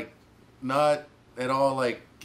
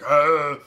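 loud charging "ah"; play-fight war cry; mock battle roar; 9 dB louder than usual. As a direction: roar as you pretend to attack. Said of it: "here I come, like".

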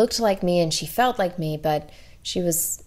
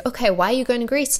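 assistant's reply; 6 semitones higher, faster than usual. Retold or imitated. Assistant voiced in retold exchange.

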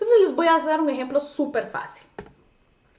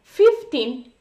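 put-on "I am fifteen years old" stretched very slowly and louder; very slow drawn out model; 6 dB louder, much slower than usual. Shown as a demonstration. Teacher hammering in the correct phrase, very slowly. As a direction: stretch every word of the phrase. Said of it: "yo voy a decir".

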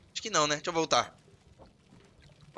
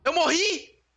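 shocked shout; 13 semitones higher, 4 dB quieter, much slower than usual. Real, not acted. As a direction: cry out as if shot. Shot in game. (grito assustado de quem levou um tiro)

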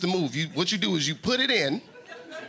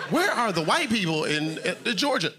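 stunned visitor voice, pitched up high; confused tourist, high; 7 semitones higher than usual. Retold or imitated. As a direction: act bewildered, much higher. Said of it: "you're like".

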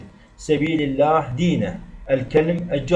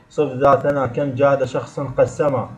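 recited mnemonic verse. Shown as a demonstration. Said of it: "مجموعة في البيت التالي".

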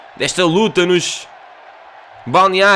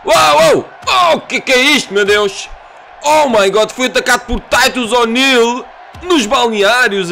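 shocked shout; 5 semitones higher than usual. Real, not acted. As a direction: yell in disbelief at the attack. Surprise attack during game.

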